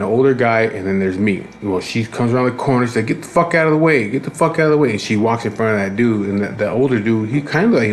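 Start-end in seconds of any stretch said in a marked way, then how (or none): 3.1-4.9 higher-pitched, repeated order in imitation; mock irate woman. Woman coming round the corner at the line, mock irate. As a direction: mildly mimic her barging through.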